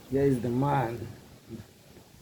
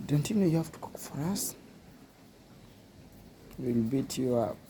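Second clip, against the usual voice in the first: voicing Blackie; 3 semitones higher than usual. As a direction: rattle it off as a pushy rival dog. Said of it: "And Blackie is like".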